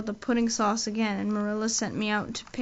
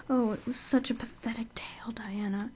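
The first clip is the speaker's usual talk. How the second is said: hushed; 5 dB quieter than usual. Acted. Anne recalls her sad imagined tale.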